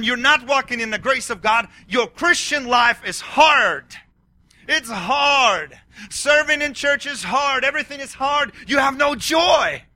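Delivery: real fervent preacher's yell. Real, not acted. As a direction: shout it at the congregation. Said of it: "I'm yelling".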